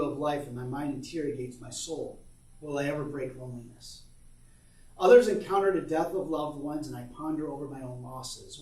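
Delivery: measured, earnest poem reading. Acted. Reads son's poem aloud.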